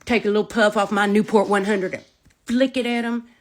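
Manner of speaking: loud, punchy mama-on-the-warpath tirade; acted-out angry warning; re-enacted threats. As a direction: lay down threats with hard stressed words.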